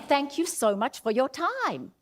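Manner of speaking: lively, grateful thanks; energetic thanks. Shown as a demonstration. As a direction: thank them with real energy. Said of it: "how I'm saying it".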